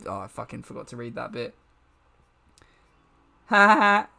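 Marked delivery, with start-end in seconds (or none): 3.5-4.1 loud, hammy comedian father voice; forced stage laugh, then emphatic self-reproach; Mayor Quimby. Acted. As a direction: declaim it like a cartoon politician confessing onstage. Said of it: "You sound like Mayor Quimby from The Simpsons".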